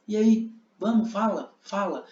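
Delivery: pushy, egging him on; agitating. Shown as a demonstration. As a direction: hurry him to speak. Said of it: "Tipo, eu tô agitando". (agitando, provocando)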